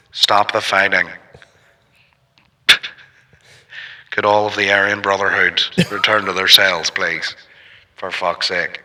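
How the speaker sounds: guard on a bullhorn over the yard; prison yard megaphone. Pretend. Guard calling over the prison yard, megaphone voice. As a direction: order the prisoners back through a megaphone. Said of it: "talking like he's on a megaphone over a prison yard".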